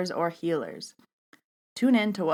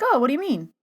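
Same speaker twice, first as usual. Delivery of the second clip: imitating a baffled guy, much higher; clueless new guy; 8 semitones higher, faster than usual. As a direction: swoop up high in mock puzzlement. Clueless new guy's question, retold.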